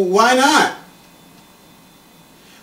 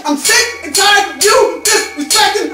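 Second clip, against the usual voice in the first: mock furious rant; 4 semitones higher than usual. Ranting at stuffed animal spouse.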